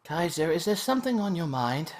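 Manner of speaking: lightly posh teacher. Acted. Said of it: "posh voice to her".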